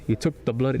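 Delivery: tentative, badly faked British accent. Shown as a demonstration. Vlogger trying a catchphrase for viewers, bad British accent. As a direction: have a half-hearted go at a British accent. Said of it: "do it in a British accent".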